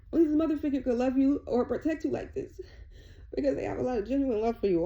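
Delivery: choked up with real emotion; on the verge of tears. Real, not acted. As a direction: speak while fighting back real tears. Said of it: "I almost just burst out into tears".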